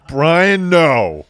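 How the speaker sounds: high, loud playful no; mock protest. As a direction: tease it as a shocked girlfriend. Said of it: "what would happen if she had said".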